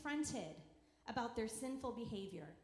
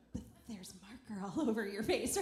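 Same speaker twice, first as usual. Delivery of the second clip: louder, amused mock protest; insistent parent; 3 semitones lower, 6 dB louder than usual. Parent to kid denying the marker, insistent. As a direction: protest loudly at an obvious fib. Parent contradicting child's denial.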